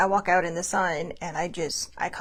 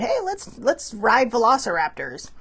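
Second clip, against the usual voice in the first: giddy brain voice; 2 semitones higher, 4 dB louder, slower than usual. Retold or imitated. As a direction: pitch it up like an excited kid's idea. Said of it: "my A D H D brain said".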